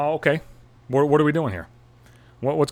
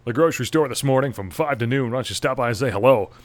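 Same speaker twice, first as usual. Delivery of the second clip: cheesy morning radio host; lightly voiced DJ pitching an event; mock radio DJ. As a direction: ham up a morning zoo DJ. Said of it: "douchebag morning zoo D J is like".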